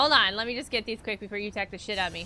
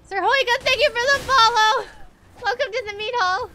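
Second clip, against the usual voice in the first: sneering panto villain; 11 semitones higher, 9 dB louder than usual. Pretend. Greets a follower, streamer voice.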